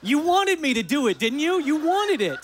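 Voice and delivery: high, laughing, playful teasing; laughing tease. Real, not acted. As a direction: tease the crowd through laughter. Teasing audience after the quote.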